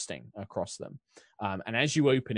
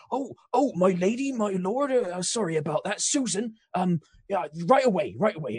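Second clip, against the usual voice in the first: put-on higher, louder English accent, flustered; nervous English baker apologizing; English husband voice; 9 semitones higher, 5 dB louder than usual. Husband baker apologizes to nobles, flustered English accent. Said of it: "I'm gonna lose all my accents".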